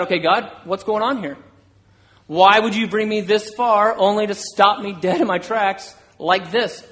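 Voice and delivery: mildly exasperated plea to God; questioning God. Acted. Preacher as imprisoned Paul asking God why, questioning. Imagined complaint to God from prison.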